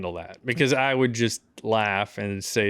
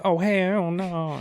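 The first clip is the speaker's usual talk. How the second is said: high, drawn-out mock Southern Black dialect; hammed-up Southern Black accent, slow and high; 8 semitones higher, much slower than usual. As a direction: stretch it out in caricatured Southern Black speech. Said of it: "goes into full, like, Mammy's Kitchen talk".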